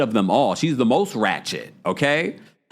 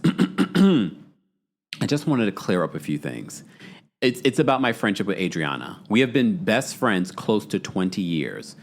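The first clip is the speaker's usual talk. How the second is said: slow, lower, prim recital voice; reading Carol's comment; 5 semitones lower, slower than usual. Retold or imitated. Host reading Carol's comment to viewers in a prim voice. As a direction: read it out primly like a formal statement. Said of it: "she says this".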